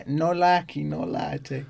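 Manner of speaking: badly faked English accent; hammed-up, dreadful English accent; horrific English accent. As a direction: have a bad go at an English catchphrase accent. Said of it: "absolutely horrific English accent".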